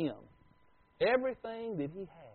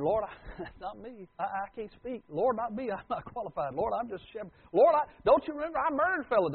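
mock stammering excuses, rising higher toward the end; stuttering Moses; 6 semitones higher than usual. Moses stammering excuses to God, mock pleading and halting. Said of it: "Moses was stuttering".

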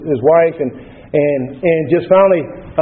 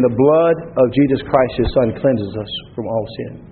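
calm deacon; 3 semitones lower, slower than usual. Retold or imitated. Deacon repeats his answer, slower.

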